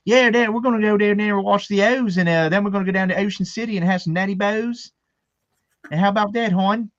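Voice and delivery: hammed-up, high-pitched Baltimore accent; full Baltimore accent. Two buddies winding up his wife, broad Baltimore accent. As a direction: go full dirty Baltimore, stretching the O's. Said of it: "dirty Baltimore accent".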